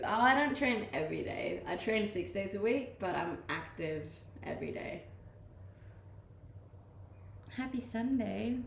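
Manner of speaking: usual speaking voice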